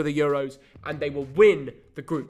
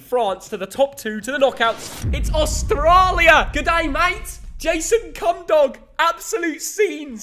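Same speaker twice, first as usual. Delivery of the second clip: loud, slow, high hammed-up Australian twang; mock Australian accent; 9 semitones higher, 7 dB louder, slower than usual. Son hams up an Aussie fan for his dad, loud mock Australian accent. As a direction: shout it like a cartoon Aussie fan. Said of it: "why are you doing a Cockney accent".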